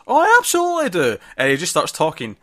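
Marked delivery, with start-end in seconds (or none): 0.1-1.2 high, eager, cutting in; eager interrupting boyfriend. Retold or imitated. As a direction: jump in keenly. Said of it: "he immediately jumps in and goes".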